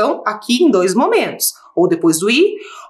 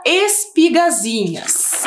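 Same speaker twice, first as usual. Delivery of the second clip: 1 slow dictation; 4 semitones higher, much slower than usual. Shown as a demonstration. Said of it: "Nossa penúltima palavra".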